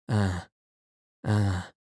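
understated sighed "ah"; deep sigh. A narrator's reading. Prince moved by the couple's plight, sighing deeply. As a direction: sigh the words out lightly. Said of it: "he sighed deeply".

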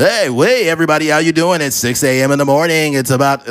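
lightly voiced hyped morning DJ; a hint of a loud radio host. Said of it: "that radio voice".

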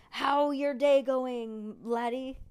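drawn-out hammed-up pirate; Facebook's pirate mode, slow mock pirate brogue; pirate speak. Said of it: "to say something like".

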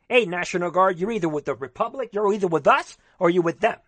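fired-up political rallying. Real, not acted. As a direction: lay down an ultimatum to the National Guard. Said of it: "I'm fired up".

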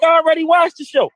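laughing quote. Retold or imitated. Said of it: "she was like".

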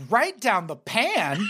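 slow, high, laughing disbelief; incredulous mocking repeat. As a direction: echo it back in laughing disbelief. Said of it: "It's like".

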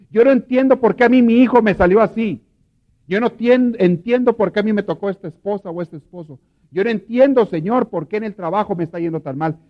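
desperate prayer. Retold or imitated. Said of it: "La persona que le dice al Señor". (súplica desesperada a Dios, en voz alta)

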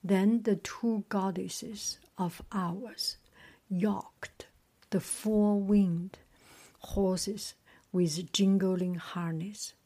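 measured storybook reading; story narration. A narrator's reading. Reader resuming the sun god's tale, measured story narration. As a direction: read on in short, paused phrases.

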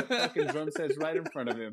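laughing through the words; chuckling disbelief. Real, not acted. Laughing at the missing drum roll.

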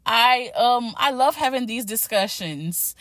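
breathless after a workout; out of breath. Real, not acted. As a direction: talk while still catching breath. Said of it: "sort of out of breath".

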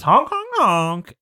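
high, slow triple honk; slow goose honks. Acted. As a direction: honk three times, drawn out. GM voices goose handing change.

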